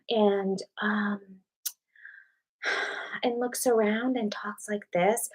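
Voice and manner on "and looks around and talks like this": imitating baby talk.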